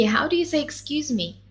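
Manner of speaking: ordinary delivery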